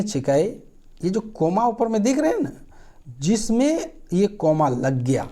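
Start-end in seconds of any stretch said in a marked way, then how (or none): 3.2-5.2 slow deliberate. Shown as a demonstration. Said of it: "आप समझिएगा बात को".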